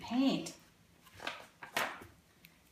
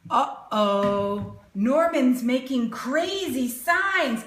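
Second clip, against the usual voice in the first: louder, playful uh-oh warning; mock alarm; 3 semitones higher, 5 dB louder, slower than usual. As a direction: tease the kids that trouble is coming.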